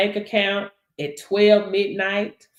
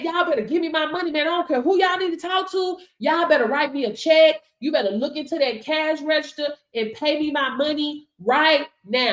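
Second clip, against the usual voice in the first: commanding; 4 semitones higher than usual. Retold or imitated. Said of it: "you're command".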